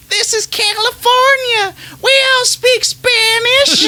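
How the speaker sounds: high, slow exaggerated thick Spanish accent, laughing. Girlfriend snaps back at the man in a thick Spanish accent. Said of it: "in this thickest fucking accent".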